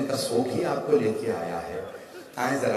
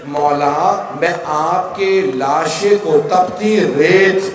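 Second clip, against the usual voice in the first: loud, slow wailing plea, voice swelling toward the end; weeping lament; 4 semitones higher, 8 dB louder, slower than usual. A narrator's reading. Widow vowing over her husband's body, loud tearful wailing. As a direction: cry out the vow to the fallen master through tears. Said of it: "एक मरतबा रो के कहा".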